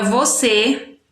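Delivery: você with the weight on final cê; stress on last syllable. Shown as a demonstration. Teacher showing pupils a final stress, cê stressed in você. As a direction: land firmly on the cê of você. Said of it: "a sílaba tônica mais forte é C".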